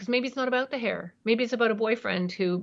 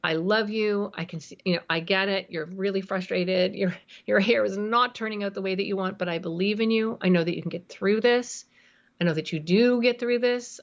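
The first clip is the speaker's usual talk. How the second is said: loving parent. Shown as a demonstration. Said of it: "When you parent from a place of love".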